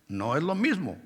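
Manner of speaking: "No es lo mismo" dropped soft, falling on "mismo"; soft falling repeat of "No es lo mismo"; quiet repeat. Shown as a demonstration. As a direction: say "No es lo mismo" again, softly settled. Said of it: "preacher repeats the distinction".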